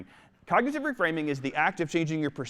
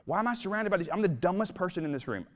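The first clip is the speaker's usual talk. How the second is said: negative self-talk; 3 dB quieter than usual. Retold or imitated. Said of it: "you say things like".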